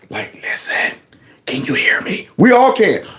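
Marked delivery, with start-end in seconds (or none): 0.3-2.2 mock creepy whispering, quieter. Mocking someone who whispers into a microphone: imitating a creepy whisper. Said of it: "Creepy's right in the mic".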